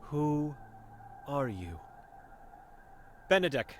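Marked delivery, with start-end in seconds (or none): 0.0-1.8 a hint of a stern old seer, guarded; wary old Vera sizing up a stranger; blind old woman.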